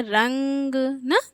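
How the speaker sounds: रंग with the nasal ng in the nose only, said slowly and softly; slow soft demo. Shown as a demonstration. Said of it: "इसमें बस नाक पे जोर जा रहा है".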